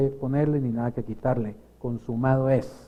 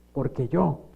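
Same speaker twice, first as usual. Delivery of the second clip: mock self-important boasting; cocky show of "I can do it"; boastful ego; 3 semitones higher, 3 dB louder than usual. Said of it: "El ego".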